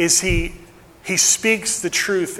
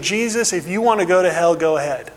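sarcastic; faster than usual. Retold or imitated. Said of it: "sarcastic, condescending attitude".

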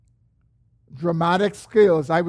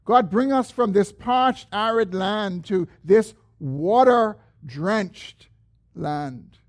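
mild pleading; 2 semitones higher, 3 dB louder, slower than usual. Acted. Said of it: "He says".

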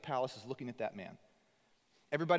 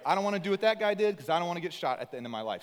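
fast, louder mock lament; imitating a sad moviegoer; 4 semitones higher, 6 dB louder, faster than usual. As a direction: rattle it off like a kid spooked by the ending. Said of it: "And you'd be like".

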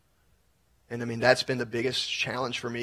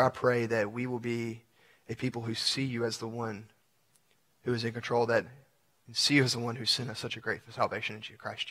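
closing prayer. Acted. Pastor praying over his congregation at the close, earnest prayer. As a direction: pray over the congregation, tender and sincere.

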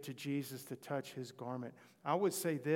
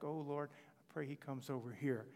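under his breath; 5 dB quieter than usual. Retold or imitated. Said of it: "not under his breath, like".

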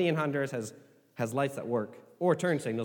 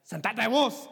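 with authority; 5 semitones higher, slower than usual. Shown as a demonstration. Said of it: "with authority".

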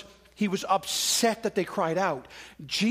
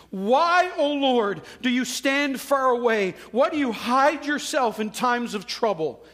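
high, loud plea to God; crying out; 3 semitones higher, 3 dB louder than usual. Acted. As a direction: recite it as an impassioned cry for help. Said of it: "who cried out to God".

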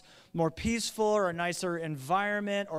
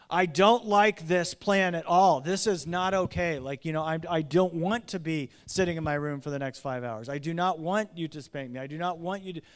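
a young son protesting to his parents, lightly voiced and louder; mock child complaint; 5 dB louder than usual. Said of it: "speak very literally to us and say".

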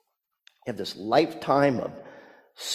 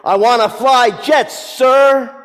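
stock cadet answer; 12 semitones higher, 11 dB louder than usual. Retold or imitated. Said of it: "Cadet Mayo gives the standard".

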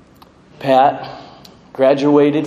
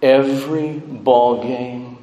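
tender eulogy. Real, not acted. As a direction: let each phrase land gently. Eulogy tribute, slowed and softened.

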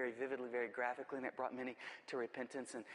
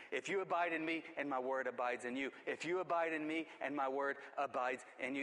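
"If you abide in me" repeated in a steady, measured beat, gradually firmer; insistent chant-like repeats of "abide" and "abides"; emphatic repetition. Acted. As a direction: repeat "my word abides in you" evenly, building slightly each time. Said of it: "he's emphasizing".

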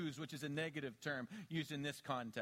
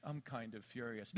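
mild mock fury; 7 semitones lower, 5 dB quieter than usual. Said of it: "You're not".

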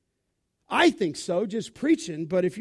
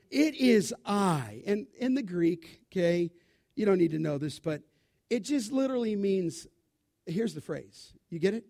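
ordinary talk, nothing marked

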